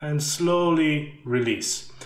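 slow exhale after a long held breath; holding breath. Shown as a demonstration. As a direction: let the held breath out slowly. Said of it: "I'm gonna try to demonstrate this".

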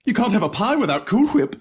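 "Cool Whip" with a breathy HW; "Whip" said hwip, H sounded; 1 aspirated hw. Acted. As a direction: blow air on the H of "Whip": hwip. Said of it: "You're saying it weird".

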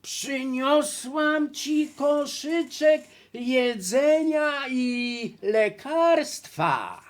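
slow, high, loud sing-song; wolf imitating a girl. Wolf luring grandma to open up, singsong girl imitation. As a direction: draw it out like a fake little girl. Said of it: "naśladować śpiewny głos dziewczynki".

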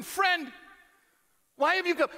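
loud, high, emphatic question; forceful preaching. Acted. Preacher booming the question to the church. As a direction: proclaim it to the congregation.

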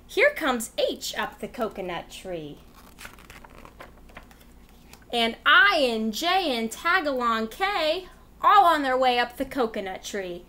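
lively sing-song read-aloud voice; reading to children. Acted. Teacher reading a rhyme book to kids, lively and sing-song. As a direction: read it out like a storyteller for little kids.

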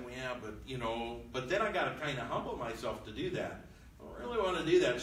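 quiet mumble, then fast dismissive brush-off; grumble, then rush the refusal; reluctant whiny king. Retold or imitated. Rehoboam brushing off the old men's advice, quiet then rushed.

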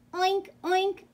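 high, loud double oink; pig oinking. A narrator's reading. Reader voicing the pig for children, oinking. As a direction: oink brightly like a storybook pig. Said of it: "grunted the pig".

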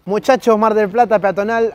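loud, playful announcer call-out; presenter's greeting. Acted. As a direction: hail them like a street presenter. Saludo de presentador a los que llegan. (saludo de presentador en voz alta)

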